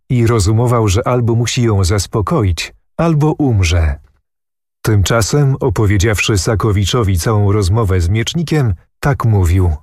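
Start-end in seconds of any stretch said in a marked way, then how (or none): none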